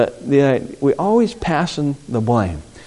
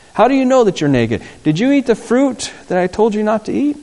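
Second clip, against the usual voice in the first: stern God questioning; 9 semitones higher than usual. Retold or imitated. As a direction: boom out God's accusing questions. God confronts Adam and Eve.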